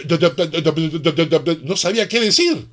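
normal talking voice

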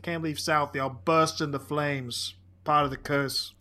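lightly voiced Boston accent; understated mock Southie; hint of Boston townie. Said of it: "Yeah, that's my accent".

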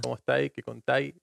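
"estáis" and "contáis" said "estái", "contái"; Chilean dropped S. Shown as a demonstration. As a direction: drop the final S in both "estáis" and "contáis". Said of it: "nosotros sin la S". ("estáis" y "contáis" sin la S final, a la chilena)

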